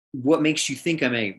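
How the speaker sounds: mildly curious, open question; gently inquiring, not defensive. Acted. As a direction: ask it out of genuine interest. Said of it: "I would respond in curiosity".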